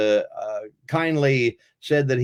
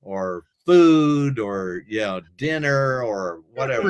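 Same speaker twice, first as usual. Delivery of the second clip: dog voice. Pretend. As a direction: drag it out like a confused pup. Voicing the dog's thoughts.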